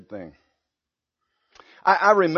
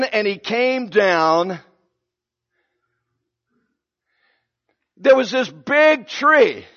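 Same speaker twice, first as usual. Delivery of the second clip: slow, grand king telling his dream; a lightly acted king, awed by his vision; voicing King Nebuchadnezzar; 4 semitones higher, 4 dB louder than usual. Preacher voicing the king as he recounts his dream.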